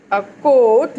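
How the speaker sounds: "coat" with a long oh vowel; long sound. Shown as a demonstration. Teacher models a long sound word, "coat" with drawn-out oh. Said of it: "long sound".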